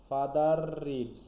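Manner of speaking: Father reads spoken slowly, the final r of Father gliding into reads; slow classroom demo of Father reads, r linked. Shown as a demonstration. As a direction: say Father reads slowly so the r and the next word run together. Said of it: "একসাথে হয়ে যাচ্ছে".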